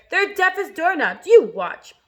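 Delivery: loud, drawn-out scornful boast; brash Centipede shouting; cried out. A narrator's reading. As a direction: crow it high and loud. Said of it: "he cried".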